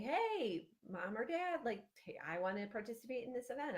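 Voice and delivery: lightly voiced child pitching to the parents; excited kid. Kid asking parents to go to a school event, lightly excited. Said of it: "get the kids excited, then they'll go home and say".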